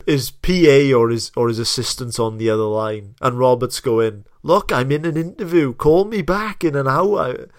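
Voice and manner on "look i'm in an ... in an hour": mildly exasperated mock voice, raised pitch; Robert. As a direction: imitate brushing off a caller. Imitating guest brushing off his assistant.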